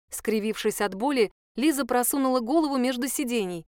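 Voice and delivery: ordinary delivery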